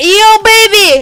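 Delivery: shrill, very loud scream. Demonstrating flirting with someone from the car: screaming. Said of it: "I again screamed".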